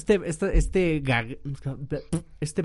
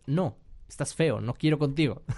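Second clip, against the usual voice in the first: slow mock rejection. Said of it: "cómo muy sutilmente le dirías".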